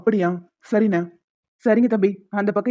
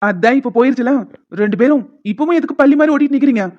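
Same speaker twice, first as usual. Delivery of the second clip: raised, exasperated scolding; angry mood; 3 semitones higher, 4 dB louder than usual. Acted. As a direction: tell them off in irritation. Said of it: "நீ ஏதோ கோவமான மூட்ல இருக்க". (எரிச்சலான கோபத்துடன்)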